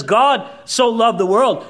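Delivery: "God so loved the world," slow, with weight on "god"; slow emphatic quote. Shown as a demonstration. Preacher reading the verse to the congregation, slow and weighty. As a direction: lean on "god", drawn out. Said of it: "When it says".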